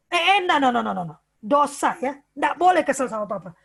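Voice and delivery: mock strict parent telling a child it is sinful; strict parent scolding. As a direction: shut the child down firmly.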